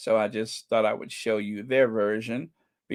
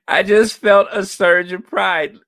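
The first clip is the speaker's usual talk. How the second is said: swelling pride; 7 semitones higher, 11 dB louder than usual. Real, not acted. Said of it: "Can I say that again?".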